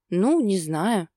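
slow, doubtful drawn-out mumble; sceptical mumble. Acted. Woman doubting her man's promise, slow and sceptical. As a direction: let the doubt drag it out. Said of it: "скептически пробормотала девушка".

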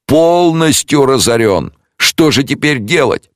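high, slow lament; a hint of tearful panic; despairing wail. A narrator's reading. Jeweller lamenting his ruin.

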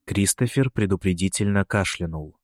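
ordinary delivery, nothing marked

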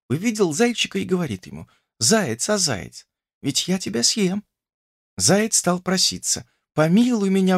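lightly voiced young woman telling a fairy tale. A narrator's reading. Olesya tells Ivan a fairy tale, lightly voiced. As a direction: tell him a little sad story.

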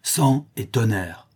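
slow, solemn pirate password; hollow voices. Acted. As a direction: intone it slowly like a hollow oath. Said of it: "Deux voix caverneuses répliquèrent en chœur".

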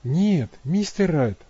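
slow, firm no; firm refusal. A narrator's reading. Abby refusing Matt's order, slow and firm. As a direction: plant her feet and refuse slowly. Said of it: "твёрдо ответила она".

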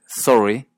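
"sorry" as sore-ee; Canadian pronunciation. Shown as a demonstration. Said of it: "es casi seguro que es de Canadá".

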